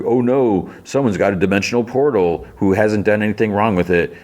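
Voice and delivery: mock alarm. Mocking the team-up with Lex Luthor, sarcastic alarm. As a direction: mimic their flimsy reasoning with fake concern.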